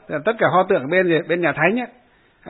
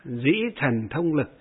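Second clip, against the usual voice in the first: recited verse. Shown as a demonstration. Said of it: "đọc cái bài này".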